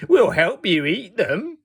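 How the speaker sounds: high, loud sneering neighbours; nasty reply. Acted. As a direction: sneer it nastily. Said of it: "replied Mister Wolf's neighbours nastily".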